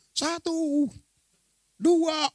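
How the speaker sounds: high, called-out count; counting for a throw. Acted. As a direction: call the count before heaving someone. Menghitung sebelum melempar Yunus ke laut. (hitungan aba-aba bernada tinggi)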